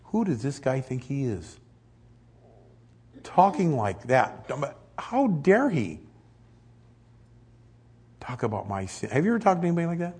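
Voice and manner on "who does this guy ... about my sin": offended unbeliever. Retold or imitated. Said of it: "they're gonna say".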